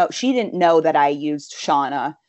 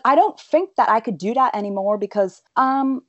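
put-on Irish accent; 6 semitones higher than usual. Shown as a demonstration. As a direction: slip into a pretend Irish accent. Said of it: "pretended that I was Irish".

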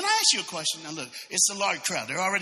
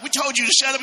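high, louder mock annoyance; mock scolding; 8 semitones higher, 5 dB louder, faster than usual. Preacher acting the crowd silencing a blind man, mock scolding. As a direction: scold him for not listening, acted.

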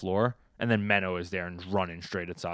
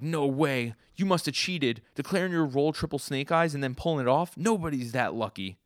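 high, loud accusing protest; outraged disbelief; 7 semitones higher, 5 dB louder than usual. Retold or imitated. Gambler accusing Sasuke of cheating at dice, outraged disbelief. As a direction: protest in incredulous, raised pitch.

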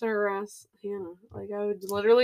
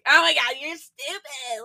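loud exasperated groan of a line; annoyed older sister; 5 semitones higher, 6 dB louder than usual. Retold or imitated. Older sister fed up with the prank, exasperated. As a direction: roll your eyes at the brat.

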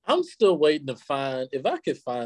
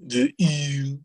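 exaggerated Baltimore "ooh" in "you"; imitated Baltimore accent; 2 semitones higher than usual. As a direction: put on a Baltimore vowel for "just you". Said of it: "saying words with the ooh sound".

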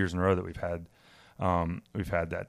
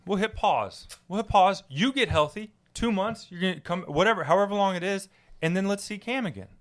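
mock Cam voice; 9 semitones higher than usual. Mimicking Cam's video message.

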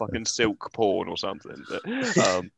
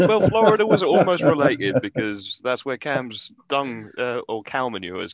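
laughing while talking; 5 dB louder than usual. Real, not acted. Joking about Cam's dung source.

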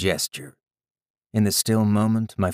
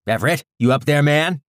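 calling out man; 7 semitones higher, 6 dB louder than usual. Acted. Man calling over comms.

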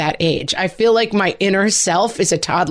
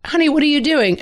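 higher, bemused parental question; puzzled mom; 8 semitones higher than usual. Retold or imitated. Mother asking daughter about the noise, mildly puzzled. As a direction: ask gently puzzled. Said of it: "And I said".

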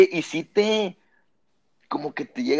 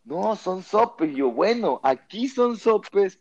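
retold insistence; 4 semitones higher, slower than usual. Retold argument over food names.

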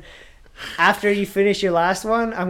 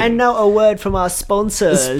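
mock announcer; slower than usual. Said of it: "announcer segue".

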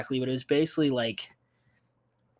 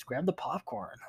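whispered cue, pitched up; hushed aside; 4 semitones higher, 7 dB quieter than usual. Pretend. Host cues listeners before the movie reviews, whispered.

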